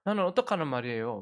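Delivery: put-on a kid suddenly switching to blame; hammed-up whiny accusation; indignant child. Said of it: "태도를 탁 바꾸는 거예요".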